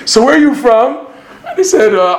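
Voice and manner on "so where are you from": laughing quote. Retold or imitated. Repeats the judge's question.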